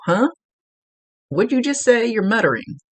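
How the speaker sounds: high-pitched, mock baffled query; puzzled asking back. Medium answering people who mutter around her, puzzled asking back. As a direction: act out not catching what was mumbled.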